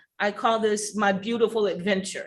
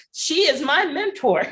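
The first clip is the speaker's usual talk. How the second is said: laughing; 7 semitones higher than usual. Real, not acted. Emotional farewell, laughing.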